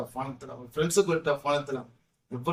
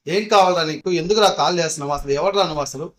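louder, harsh demand down the phone; mock loud telling-off; retold loud scolding; 4 dB louder than usual. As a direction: bark it at him like an angry girlfriend. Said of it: "గట్టిగా మాట్లాడింది".

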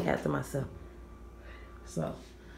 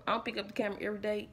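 fast; 4 dB quieter, much faster than usual. Real, not acted. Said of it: "every, every day".

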